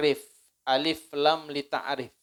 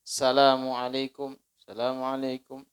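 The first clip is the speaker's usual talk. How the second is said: imam's hasty salam. Retold or imitated. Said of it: "Imamnya langsung".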